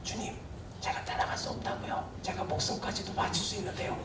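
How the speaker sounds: hushed, voiceless whisper; a soft secret whisper to the Lord. Pretend. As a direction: whisper it as if no one else should hear. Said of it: "속삭이실 수도 있는데".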